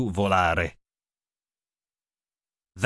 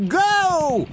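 high, loud go; yelled; 4 dB louder than usual. A narrator's reading. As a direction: shout the start. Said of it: "yelled Grandad".

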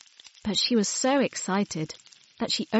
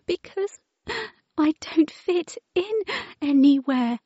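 high, tearful wail; weeping; 10 semitones higher than usual. Acted. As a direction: cry out how lonely she is. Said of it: "wept Wilma".

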